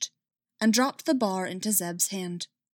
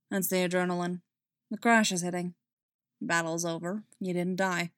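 gentle. Acted. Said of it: "Still gently".

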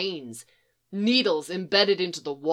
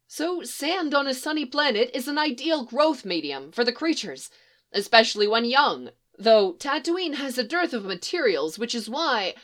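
higher, excited lecturing; can't stop explaining his discovery; proud scientist rattles off findings to troopers; eager spiel; 4 semitones higher than usual. Acted.

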